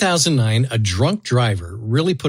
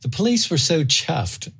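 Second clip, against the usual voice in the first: put-on light South African accent, slightly higher; 4 semitones higher than usual. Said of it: "I'm gonna do my best South African accent".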